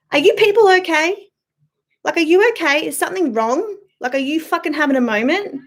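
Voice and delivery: mocking concern. Real, not acted. Ranting at attackers in comments.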